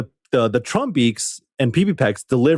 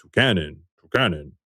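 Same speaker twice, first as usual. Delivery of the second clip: Pokemon cry; 5 semitones lower than usual. Retold or imitated. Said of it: "is like".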